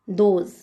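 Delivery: दोज starting with a voiced द. Shown as a demonstration. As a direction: teach दोज with a clear द at the front. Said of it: "द का sound आ रहा है".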